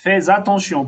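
"Fais attention" linked as fay-za-ton-sion; liaison with Z. Shown as a demonstration. Teacher explaining the S before A, "Fais attention" with Z liaison. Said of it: "Eu tô lendo esse S com esse A".

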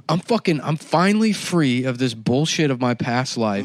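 mildly hammed-up defiance; defiant declaring. Man answering his worried friends, mild defiance. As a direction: proclaim your freedom to doubters.

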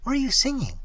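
high-pitched, innocent enquiry; innocent question. A narrator's reading. Evelyn asks Kemper innocently, pitched high. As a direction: ask lightly in a high, guileless voice. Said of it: "she asked innocently of Kemper".

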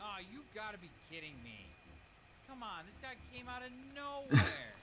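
high loud exasperated complaint; raging gamer. Real, not acted. Gamer hit by mob.

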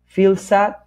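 "feel sad" run together with one S sound; "feel sad" as one smooth unit, one shared S; linked S. Shown as a demonstration. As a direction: join the words of "feel sad" on a single S. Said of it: "suena una sola S".

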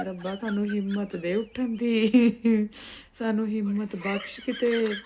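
tired, pleading prayer; weary plea. Retold or imitated. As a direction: sigh it out like a worn-out plea. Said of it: "ਇੱਕੋ ਅਰਦਾਸ ਕਰਦੀ ਆ". (ਥੱਕੀ ਹੋਈ ਅਰਦਾਸ)

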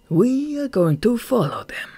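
high, harsh, commanding tone; fierce resolve. A narrator's reading. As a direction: order the underling with fury. Furious boss gives orders.

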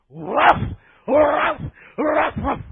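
high mock barking woofs; high yapping imitation of barking back. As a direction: yap back like an upset dog. You bark back at them.

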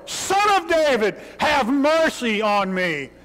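high, pleading cry. Acted. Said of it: "he cried out all the more".

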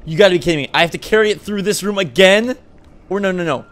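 loud, exasperated disbelief; exasperated yelling. Real, not acted. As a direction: yell it in frustration. Frustrated outburst at game.

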